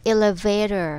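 elevator with the T softened to a D; elevator, American flap instead of T. Shown as a demonstration. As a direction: say elevator the American way, T becomes a quick D. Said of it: "มักจะออกเสียงตัว T เป็นตัว D".

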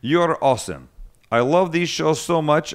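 lightly put-on Russian accent. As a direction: read it with a mock Russian accent. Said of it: "with my most excellent Russian accent".

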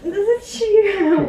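laughing and squirming, slow; giggling while being tickled. Real, not acted. Dog toy touches her, she laughs.

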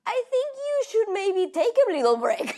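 high giggly advice; laughing quote. Retold or imitated. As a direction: say it through giggles.

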